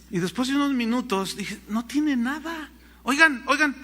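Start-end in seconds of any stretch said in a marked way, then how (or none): 1.7-3.8 calling out to stop. Retold or imitated. Pastor calling out to stop them.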